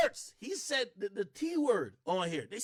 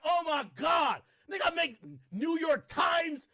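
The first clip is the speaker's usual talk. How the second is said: mock shout; 8 semitones higher, slower than usual. Mocking his own viral fame.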